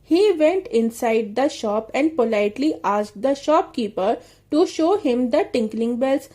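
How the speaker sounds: put-on very slow, carefully spaced reading aloud for children; slow read-aloud storytelling; slow story reading. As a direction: read each English word out slowly for the class. Reads English story line slowly.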